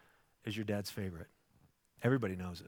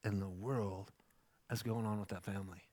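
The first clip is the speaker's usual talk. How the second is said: bewildered; 4 semitones lower, 8 dB quieter than usual. Retold or imitated. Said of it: "I was just like".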